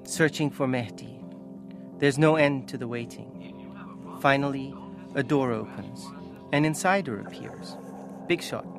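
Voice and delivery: measured, dramatic reading aloud; story narration. A narrator's reading. Author reading the story's opening, measured narration. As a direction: read it with spaced, weighted phrases. Reads own book aloud.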